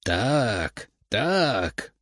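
cawing through laughter. A narrator's reading. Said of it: "каркал сквозь смех".

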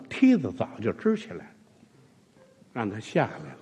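ordinary talk

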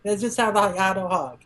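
high, lightly mocking sidekick excuse-making; goofy Shinpachi voice. Shinpachi rationalizing the monster as a family hug, mock high voice. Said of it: "Shinpachi is, like, going along".

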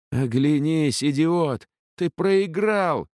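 high, slowing triumphant yell; shouting. A narrator's reading. Ellin yelling at the thug, high and triumphant. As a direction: shout him down, she has won. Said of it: "закричала она".

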